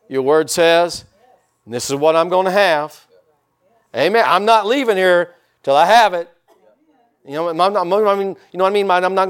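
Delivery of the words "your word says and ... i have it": bold claiming prayer. Retold or imitated. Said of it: "some boldness".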